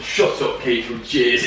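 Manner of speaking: mock Jim's accent, partly breathy; a loose stab at Jim's accent; S2 teasing with Jim's voice, rejected. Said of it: "Doesn't sound like that".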